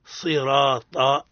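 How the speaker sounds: صراط with a pure, emphatic sad and a drawn-out vowel; slow model of صراط with a clean sad; correct pure sad. Shown as a demonstration. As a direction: stretch صراط slowly with a heavy sad. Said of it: "بالصاد الخالصة".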